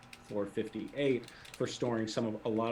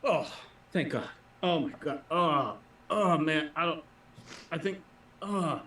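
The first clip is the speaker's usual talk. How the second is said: relieved sick guard; 5 semitones higher, 4 dB louder than usual. Acted. Game master voices the guard relieved at the fake badge, groaning relief. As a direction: play the guard sagging with relief.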